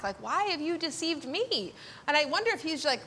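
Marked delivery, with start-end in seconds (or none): 0.2-1.7 slow, mildly taken-aback question. Acted. Jacob to Laban who tricked him, mildly taken aback. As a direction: act a little stunned, drawing it out. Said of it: "he's sort of taken aback".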